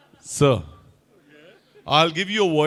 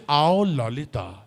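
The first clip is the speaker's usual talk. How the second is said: slow, lower sleazy call; Shakti Kapoor line; 4 semitones lower, much slower than usual. Shown as a demonstration. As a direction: beckon like a cheesy villain. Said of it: "Action, just say". (धीमी, चिपचिपी पुकार)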